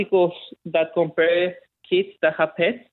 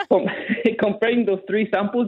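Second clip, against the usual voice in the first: laughing; 4 semitones higher than usual. Real, not acted. Laughs while giving results.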